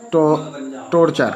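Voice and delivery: टॉर्चर restarted after its first syllable, ch clear; CH pronunciation demo. Shown as a demonstration. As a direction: sound out टॉर्चर with a firm ch. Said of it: "इस तरीके के वर्डों को हम पढ़ेंगे". (टॉर्चर में साफ़ 'च' का उच्चारण)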